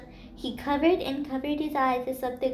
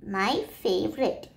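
howling; 4 semitones lower than usual. Acted. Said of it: "Paris howled".

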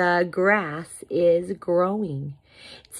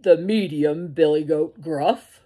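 loud middle-sized goat voice; medium billy goat; 6 dB louder than usual. A narrator's reading. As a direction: announce yourself as the middle goat. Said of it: "And the billy goat said".

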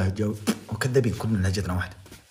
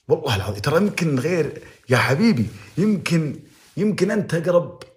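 emphatic plea; 8 semitones higher, 5 dB louder than usual. Real, not acted.

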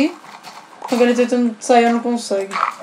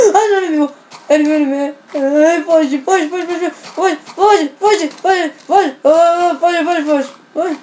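panicked fleeing; 4 semitones higher, slower than usual. Real, not acted. Creature spotted, fleeing in panic.

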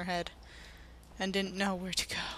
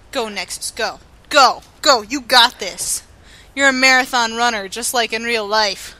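cheering on; 2 semitones higher, 11 dB louder than usual. Acted. Cheering her character on.

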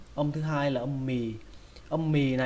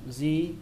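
"di" lifted above the neighbouring syllables; raised tone. Shown as a demonstration. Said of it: "Âm thứ ba lên giọng".

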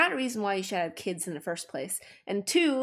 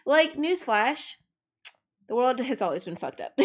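sarcastic newsflash; 4 semitones higher than usual. Real, not acted. Sarcastic retort to complainers.

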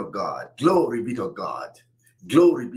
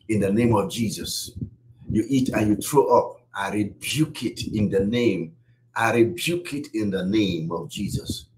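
urgent prayer over the sick. Real, not acted. Prayer against sickness, rebuking infirmity.

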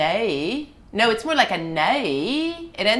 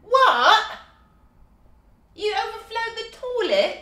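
surprised; 12 semitones higher than usual. Real, not acted. Kid overflowed the toilet.

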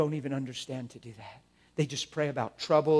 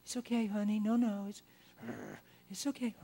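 a put-on nice voice through gritted teeth; hammed-up fake mercy; fake sweetness; 4 dB quieter than usual. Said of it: "You're not trying to be merciful".

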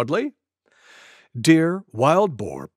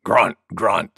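boar grunt; 7 semitones lower than usual. Acted. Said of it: "said Wild Boar".

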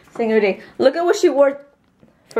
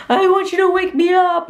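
imitating her daughter; 10 semitones higher, 4 dB louder than usual. Mom imitates daughter's demand.

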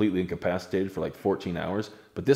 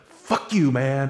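high, laughing swear; laughing curse; 6 semitones higher, 3 dB louder, much slower than usual. Retold or imitated. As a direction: curse them while cracking up. Ryan cursing them, half laughing.

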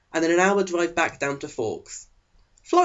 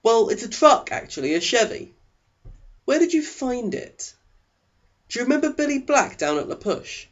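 dad's voice; 9 semitones higher than usual. A narrator's reading. Dad and daughter talk about truck.

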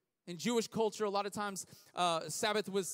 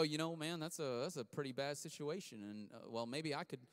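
mock excuse; 5 semitones lower, 7 dB quieter, faster than usual. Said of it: "He didn't sit there and go".

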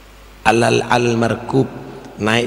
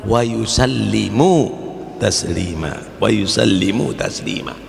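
Quran recitation. Acted. Quran verse recited in sermon.

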